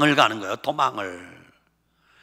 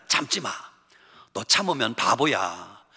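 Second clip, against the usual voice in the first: devil's whisper. Acted. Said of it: "그게 다 마귀가 하는 짓이야".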